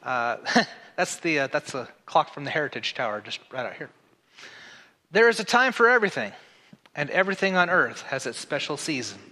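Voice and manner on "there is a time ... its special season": raised, quick proclamation; scripture reading. Acted. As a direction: read it out boldly to the church. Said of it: "I get the opening line".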